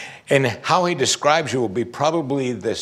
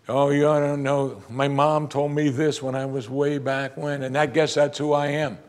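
higher-pitched, resigned mock complaint; self-doubting counselee; 3 semitones higher than usual. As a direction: imitate someone stuck on an old hurt. Voicing people with a low self-image.

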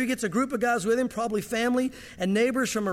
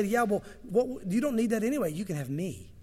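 gentle God. Retold or imitated. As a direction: answer like a loving father. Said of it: "Now God can say".

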